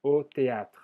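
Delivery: Au théâtre, closing on the consonants tr; silent final E. Shown as a demonstration. Teacher repeating after explaining the final letter, silent final E. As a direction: leave the E off théâtre but keep a trace of tr. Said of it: "El E final no se pronuncia".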